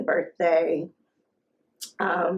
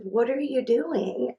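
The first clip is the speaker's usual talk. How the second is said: higher, slow mock bafflement; retold baffled question; 5 semitones higher, slower than usual. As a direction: lightly act out a puzzled mother, drawn out. Retells her question to crying child.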